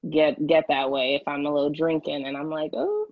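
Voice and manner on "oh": playful high-pitched British accent, quick; hammed-up British accent, rattled off fast. Shown as a demonstration. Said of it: "I'm definitely throwing on the British accent".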